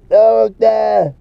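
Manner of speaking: high, slow mock-frightened whimper; mock scared. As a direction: imitate cowards begging, hammed-up. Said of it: "scared like little girls".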